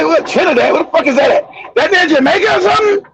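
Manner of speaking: mock-clueless questioning, rising in pitch toward the end; lightly hammed-up ignorance; ignorant confusion. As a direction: imitate a baffled, ignorant college kid. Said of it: "I sound just ignorant".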